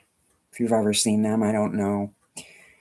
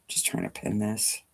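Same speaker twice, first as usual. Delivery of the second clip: talking with pins between lips; mumbled around a mouthful of pins; 3 semitones lower, 9 dB quieter than usual. Real, not acted. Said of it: "Don't put pins in your mouth".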